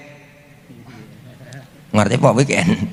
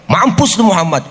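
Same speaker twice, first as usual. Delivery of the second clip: mock curse; 3 semitones higher, 4 dB louder than usual. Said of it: "balikin aja".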